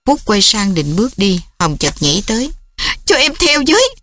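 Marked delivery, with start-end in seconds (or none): 3.1-3.9 desperate plea. Acted. Daughter desperately pleads.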